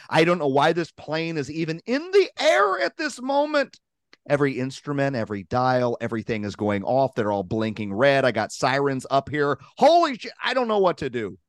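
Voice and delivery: pilot losing it over the PA; panicking pilot on intercom. Retold or imitated. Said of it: "the M C of the squawk box and says".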